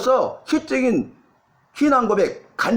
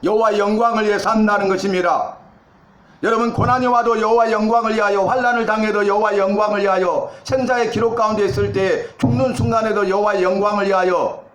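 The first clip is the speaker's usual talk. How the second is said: fervent preaching. Acted. Pastor urging the congregation to live for God's glory, fervent preaching. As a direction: press each "위하여" home like a rallying cry.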